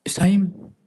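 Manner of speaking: a quick unvoiced aside; hushed reminder that time is up; whisper. Real, not acted. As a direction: whisper it so only the host hears.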